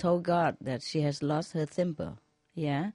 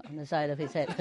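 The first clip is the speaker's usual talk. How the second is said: laughing; much faster than usual. Real, not acted. Laughing at punchline.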